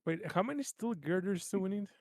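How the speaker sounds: whispered side question. Real, not acted. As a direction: breathe it out as a hushed aside. Quick side question at table.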